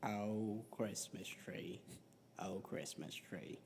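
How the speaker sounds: very low, soft Morgan Freeman hum. Retold or imitated. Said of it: "as Morgan Freeman".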